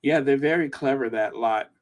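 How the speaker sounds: quick, posh English phrasing; a touch of hybrid English accent. Shown as a demonstration. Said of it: "I sound so posh in English".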